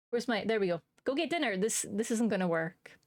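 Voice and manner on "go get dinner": a mild mock stern order, pitched up; scary mum. Streamer ordering chat to eat, mock stern. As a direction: try to sound scary, failing. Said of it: "It's not scary".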